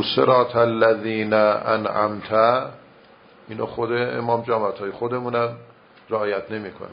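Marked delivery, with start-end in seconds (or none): 0.0-2.3 صراط الذین انعمت drawn out slowly; slow recitation. Shown as a demonstration. Teacher reciting the verse slowly for the class. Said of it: "قبلاً خدمتون گفتم".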